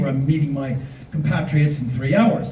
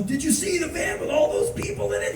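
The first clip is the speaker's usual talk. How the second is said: high-pitched, hurried panic question; panicked; 11 semitones higher, 6 dB quieter, faster than usual. Retold or imitated. Late traveler asks hotel staff about the van, panicked. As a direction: ask it in a mock panic, voice pitched up.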